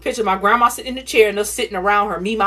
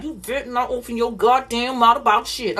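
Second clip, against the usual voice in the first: threatening grandma; 3 semitones higher than usual. Retold or imitated. Grandma threatening the child in a put-on voice. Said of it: "She like".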